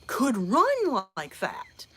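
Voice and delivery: whispered in disbelief; breathless hushed aside. Real, not acted. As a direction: drop to an amazed whisper. Amazed aside about running woman.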